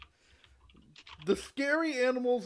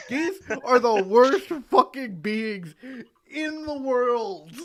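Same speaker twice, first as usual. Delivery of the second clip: slow emphatic rant; 6 dB louder, slower than usual. Real, not acted. Ranting about geese.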